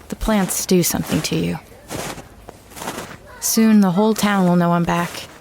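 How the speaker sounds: ordinary talk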